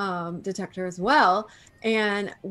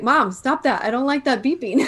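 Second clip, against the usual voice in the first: higher and louder, a whiny complaint; voicing the dog; 4 semitones higher, 5 dB louder than usual. Owner voices her dog's complaint about the beeping, mock whiny. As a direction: give the dog a pleading little voice. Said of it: "So she was like".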